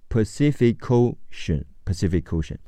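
final k of Pacific runs into the O of Ocean; linked pronunciation. Shown as a demonstration. English teacher models the phrase for learners, linking Pacific into Ocean. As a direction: say "Pacific Ocean" joined, with a "ko" in the middle. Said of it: "连起来读科欧抠".

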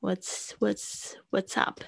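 whispered. Shown as a demonstration.

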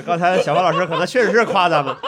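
laughing. Real, not acted. Laughing relief after the joke.

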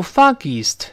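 "foggiest" squashed into two syllables, fog-geest; wrong pronunciation. Shown as a demonstration. Teacher shows students the mistake, "foggiest" merged as fog-geest. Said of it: "不要读foggiest".

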